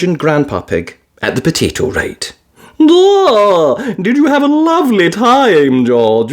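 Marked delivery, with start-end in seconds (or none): 2.8-6.3 higher, slow granny voice; lightly voiced grandmother, wondering; a hint of a curious old lady; Granny Pig voice. A narrator's reading.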